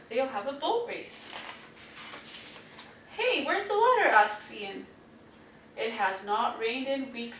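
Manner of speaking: put-on lively storybook reading to kids; reading to children. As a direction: read it like a bedtime picture book. Reading picture book aloud.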